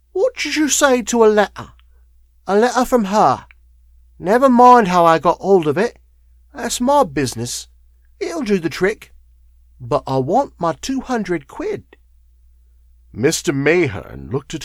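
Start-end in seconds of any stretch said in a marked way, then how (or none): 0.1-12.0 put-on high, sly old hag; wheezy crone. A narrator's reading. Old woman offering the lawyer a letter for money, wheezy. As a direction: bargain hard in a high crone voice. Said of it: "she wheezed".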